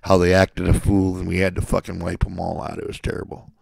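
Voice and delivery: hammed-up hand-wringing commentator; mock newscaster. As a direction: parody the fake pity of the news. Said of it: "talking about".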